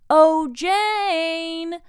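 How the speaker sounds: put-on loud, high drunken holler; drunken call. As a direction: call out for his wife, slurring. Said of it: "would frequently call out".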